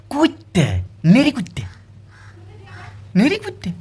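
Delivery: high-pitched mimicry of an insult; high, indignant repeat; mocking quote. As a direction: echo the name-calling up high, offended. Mimics insulting names people use.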